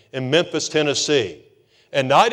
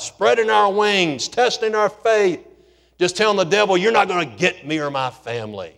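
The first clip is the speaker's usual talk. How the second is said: rousing preaching. Acted. Preacher urging congregation to spread their wings, rousing. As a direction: stir the congregation with rising fervor.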